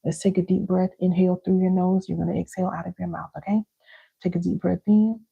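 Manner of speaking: calm breathing cue, gently led; unhurried breath-work guide; guided breathing. Shown as a demonstration. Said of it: "let's do this together".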